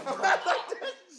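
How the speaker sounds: shrieking laughter; can barely get the words out; laughing hard. Real, not acted. Laughing fit about James.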